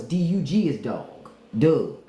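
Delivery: "Doug" short, standing in for dog; Baltimore pronunciation. Shown as a demonstration. Spelling out Baltimore's version, short "Doug". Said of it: "in Baltimore".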